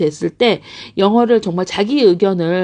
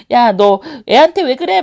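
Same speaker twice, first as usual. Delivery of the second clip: mild mock scolding, a little raised; nagging mother; 4 semitones higher, 4 dB louder than usual. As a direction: chide a grown child, lightly acted. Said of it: "그러면 짜증나고". (살짝 나무라는 엄마 말투)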